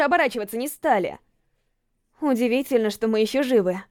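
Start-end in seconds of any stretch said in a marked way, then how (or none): none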